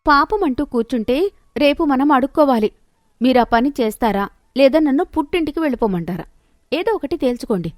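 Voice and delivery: lightly voiced domineering wife; wife giving an ultimatum. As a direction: push the husband to decide.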